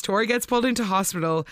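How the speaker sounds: usual speaking voice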